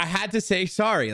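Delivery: can't keep a straight face saying sorry; laughing while talking. Real, not acted. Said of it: "I'm doing it right now".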